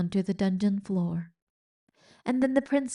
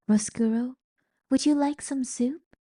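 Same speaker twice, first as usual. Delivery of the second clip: gentle offer; 6 semitones higher than usual. Acted. Princess offering her enemy soup. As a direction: hold out kindness.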